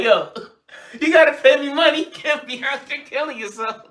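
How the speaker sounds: loud, high gangster boss demanding money; Tony Soprano. Retold or imitated. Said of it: "Tony is like".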